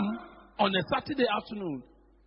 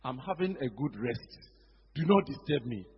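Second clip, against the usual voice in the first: lower, softer, sleepy grumble; lazy Mister Ofori; 6 semitones lower, 4 dB quieter than usual. Retold or imitated. Preacher voicing Mister Ofori as a sleepy grump. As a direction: brush him off as if half-asleep. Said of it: "And Mister Ofori said".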